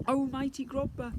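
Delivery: flustered blurt. Acted. Mum rushes forward to flatter the prince, flustered gush. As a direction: gush it out too fast. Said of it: "Mum blurted out".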